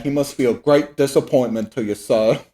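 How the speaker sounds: lightly put-on British voice; a faint stab at a stern British officer; a hint of a British officer scolding; bad British accent. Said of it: "their bad British accent".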